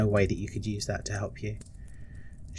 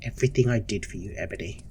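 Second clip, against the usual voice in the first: stern matron, hushed. Acted. Matron explains her cruelty to Ebony, hushed and stern.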